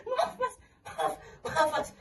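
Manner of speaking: can't hold back the laugh. Real, not acted. Apologizes while cracking up.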